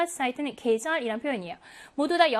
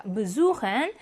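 "besuchen" stressed on the u of "suchen"; light "be", strong SU in "besuchen"; second-syllable stress; 3 semitones lower, much slower than usual. Shown as a demonstration. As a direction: hit the long u in "besuchen". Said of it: "suchen의 우의 강세가".

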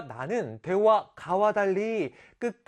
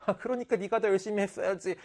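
mocking scold; 3 semitones higher, 4 dB quieter, faster than usual. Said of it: "막 나한테".

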